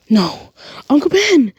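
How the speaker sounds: high, loud cry of grief; anguished cry. Acted. Deku crying out over his dying uncle, anguished shout. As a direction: scream his name in despair.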